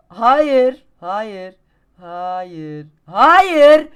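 very high, loud anguished screams; desperate screaming. Real, not acted. Gamer screaming no as he keeps falling, desperate. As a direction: wail no with everything.

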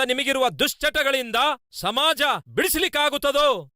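high, driving preacher's challenge; full-force sermon, pitched high; impassioned preaching. Real, not acted. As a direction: fire rhetorical questions at the congregation in a high voice.

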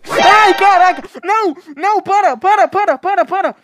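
high, loud frantic pleading; panicked screaming. Real, not acted. Gamer screaming as Granny attacks him. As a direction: scream at her to stop.

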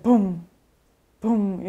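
short boom sound, voiced by mouth; spoken "boom" for distant shelling; imitated explosion boom. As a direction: mimic the dull boom of a blast. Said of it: "이런 소리 나고".

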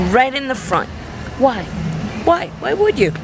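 baffled, rising rant; why would anyone do this; incredulous. Real, not acted. Ranting about car window item.

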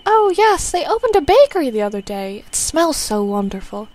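a lightly voiced mother planning a visit; gentle old mother. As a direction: fuss fondly over your son. Confused mother changes subject.

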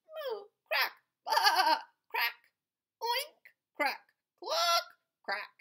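high laughing moos, baas and clucks; giggly animal noises. Acted. Reading to a child, animals voiced laughing. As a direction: play each farm animal, giggling.

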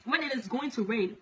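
measured, declaimed warning from God; solemn prophecy. Acted. Preacher relays God's warning to the world, solemn prophecy. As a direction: deliver it as a solemn divine proclamation.

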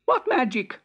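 high, eager question; excited. Acted. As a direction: demand the secret with glee. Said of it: "said the excited Emperor".

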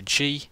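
G as a hard "guh"; final G like the start of game; hard G sound. Shown as a demonstration. Teaching Latin letters, G as hard "guh".

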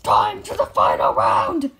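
big game-show announcer call. Acted. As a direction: announce it like a host. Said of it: "so I'm just gonna say".

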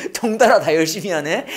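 talking through a real chuckle; amused laughter. Real, not acted. Teacher teasing the class about trying hard, laughing. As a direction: let a laugh break into the words.

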